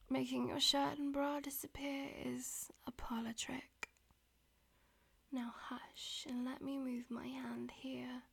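whispering. Acted. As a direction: whisper it close to the ear. Whispered throughout.

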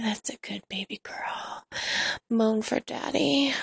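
hushed, softened murmur of a partner's words; retold whisper. Narrator quotes partner speaking in their ear, whispering. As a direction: imitate him whispering, softly. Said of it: "he's whispering in my ear".

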